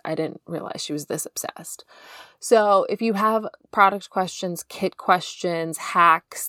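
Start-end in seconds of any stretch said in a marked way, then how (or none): 0.0-1.8 hushed aside; whisper. Retold or imitated. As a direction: whisper it under your breath. Imagined listener's aside.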